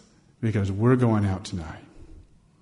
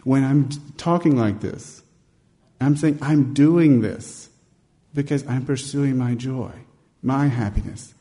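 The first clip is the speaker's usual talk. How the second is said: excited preacher; 4 semitones higher than usual. Retold or imitated. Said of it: "he's like".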